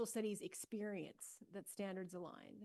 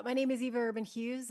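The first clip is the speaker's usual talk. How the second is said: loud, projecting classroom voice; teacher voice; 3 semitones higher, 8 dB louder than usual. Shown as a demonstration. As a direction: project it to the back of the room. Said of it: "I'll just use my teacher voice".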